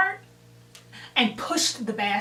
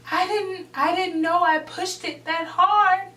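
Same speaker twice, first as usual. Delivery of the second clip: retold defensive excuse; 7 semitones higher, 3 dB louder than usual.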